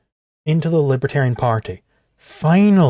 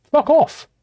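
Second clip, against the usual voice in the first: snapped retort; 12 semitones higher than usual. Real, not acted. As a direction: spit it back high. Snapping back after mock quote.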